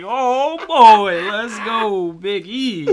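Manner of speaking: high, loud hype-up; excited cheer. Retold or imitated. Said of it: "I was like".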